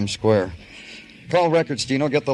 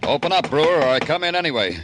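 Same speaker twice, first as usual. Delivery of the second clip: calling out; 5 semitones higher than usual. Acted. Detective calls through a killer's door.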